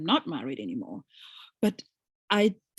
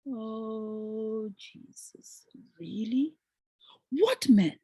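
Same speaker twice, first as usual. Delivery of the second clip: whispered retort; much slower than usual. Retold or imitated. Her whispered retort to husband.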